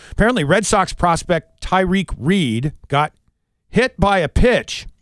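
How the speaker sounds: brisk, polished sportscaster delivery; radio sports read. Acted. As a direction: read out the scores like a radio anchor. Reads radio sports update.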